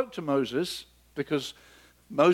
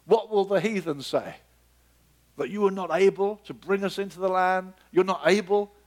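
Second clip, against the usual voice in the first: Moses pleading, higher, with a hint of alarm; Moses protesting; 3 semitones higher than usual. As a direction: protest like Moses, pitch raised. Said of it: "And Moses says".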